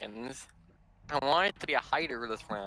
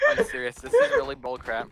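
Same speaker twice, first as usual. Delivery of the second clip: pitched-up whine; high whiny complaint; 5 dB louder than usual. Real, not acted. Complains about unfair game.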